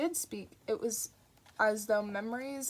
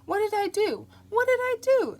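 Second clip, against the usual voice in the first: high, loud, wounded innocence; indignant protest; 13 semitones higher, 12 dB louder than usual. Acted. Crowley protesting his innocence to the angel, loud and indignant. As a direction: throw the question back, outraged.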